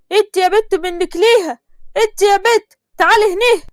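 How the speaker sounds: calling out. Acted. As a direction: summon the girl from afar.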